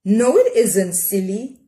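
a hint of a gently scolding mother; lightly voiced mother correcting her; mother's voice in her head, mild scolding; Ma's voice. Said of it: "Ma's voice said inside her head".

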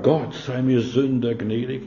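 humble prayer. Acted. Tax collector's humble prayer.

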